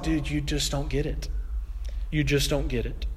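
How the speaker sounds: softly spoken, resigned reproof; understated letdown. Acted. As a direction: gently tell him he's missing it. God answers the boasting man.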